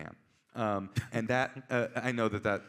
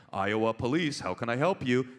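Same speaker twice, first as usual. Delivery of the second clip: lightly voiced, louder desk officer; police front desk; 5 dB louder than usual. Cop answering a relayed call, light front-desk greeting. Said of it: "front desk".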